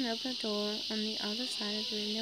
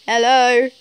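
put-on phone voice; 2 semitones higher, 21 dB louder than usual. Man answering his phone, in a loud put-on voice. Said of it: "Sorry, I'm trying to do a voice".

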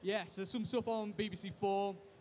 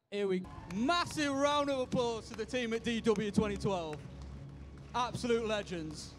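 announcing to the crowd; 2 semitones higher, 3 dB louder than usual. Real, not acted. Calling for applause.

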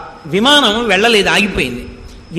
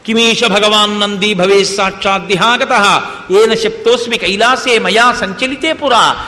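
verse recitation. Acted.

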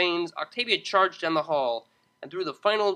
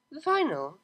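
interrupting; 10 semitones higher than usual. Acted. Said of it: "interrupted the cellist".

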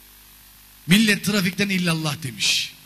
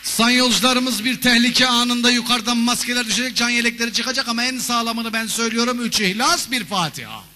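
pilot announcement; 3 semitones higher than usual. Pretend. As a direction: read it out like a pious captain. Mock pilot cabin announcement.

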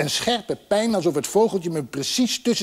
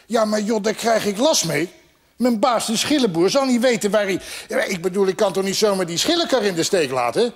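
higher, flustered objection; agitated, pitched-up pleading; worried protest; 4 semitones higher, 3 dB louder than usual. Acted. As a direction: pile up excuses in protest. Horse protests with excuses.

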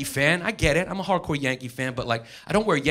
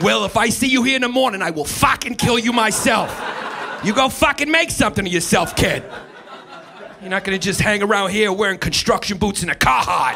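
Boston movie mentor; 4 semitones higher, 4 dB louder than usual. Retold or imitated. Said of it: "It's like".

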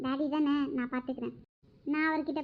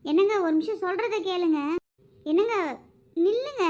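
calling after him; 3 semitones higher than usual. Acted. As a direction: call out, begging him to stop. Wife calls after leaving husband.

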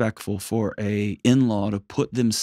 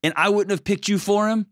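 a higher, gently accepting mother-in-law voice; lightly voiced, pitched-up in-law giving a warm welcome; welcoming mother-in-law; 4 semitones higher than usual. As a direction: speak as a mother-in-law who chooses to embrace her son's wife. Voicing ideal mother-in-law's welcome.

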